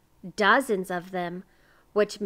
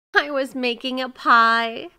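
loud, higher, plaintive wail; tearful; 5 semitones higher, 9 dB louder than usual. A narrator's reading. Miser explains himself to the neighbors, tearful. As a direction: complain through tears. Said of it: "his voice was stuffy with tears".

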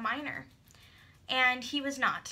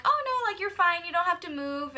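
lightly acted polite protest, higher; mock eager reassurance; a hint of her own sweet voice; quoting herself; 5 semitones higher, 3 dB louder than usual. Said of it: "and I was like".

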